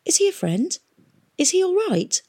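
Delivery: high anxious questions; confused. A narrator's reading. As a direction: ask nervously, baffled.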